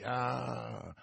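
slow, loud indignant exclamation; exasperated, swelling to a shout; outraged cry. A narrator's reading. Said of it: "gridò Buckingham".

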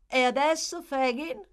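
high, loud, lively prompt; amused prodding. A narrator's reading. Nancy prompts Fagin to speak up, amused prodding. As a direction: prod him with amusement. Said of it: "disse Nancy con una nuova risata".

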